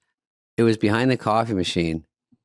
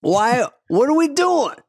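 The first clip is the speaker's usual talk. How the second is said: squeaky dumb ant; slower than usual. Retold or imitated. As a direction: whine up high like a confused ant. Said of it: "they're like this".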